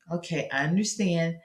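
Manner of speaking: understanding parent. Acted. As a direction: soothe a reluctant kid. Parent calming reluctant child.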